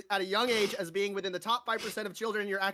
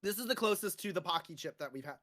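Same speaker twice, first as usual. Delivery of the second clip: talking through hiccups; hiccuping between words; 2 semitones lower, 6 dB quieter than usual. Real, not acted. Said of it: "And now I have hiccups".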